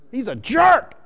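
"jerk" punched high and loud; stress on JERK. Shown as a demonstration. Preacher translating Abigail's words for the congregation, stress on JERK. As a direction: hit "jerk" hard, drawn out. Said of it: "With emphasis".

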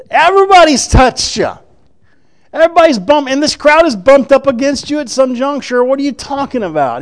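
treat the question as absurd; incredulous disciples. Retold or imitated. Disciples telling Jesus the whole crowd bumps him, incredulous.

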